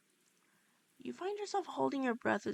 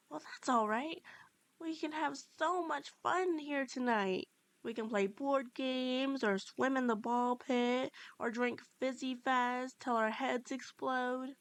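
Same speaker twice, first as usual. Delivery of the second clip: excited; 3 semitones higher than usual. Acted. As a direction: gush about all the fun plans, lingering on some words. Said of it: "he says in excitement".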